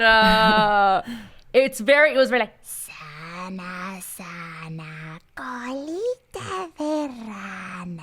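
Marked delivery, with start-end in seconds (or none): 2.6-8.0 soft, slow, breathy whisper of a ghostly nurse. Pretend. Voice actress demoing her La Planchada voice for her cohost, creepy breathy whisper. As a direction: croon it like a creepy ghost soothing a child. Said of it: "tell the story in the voice that you voiced La Planchada".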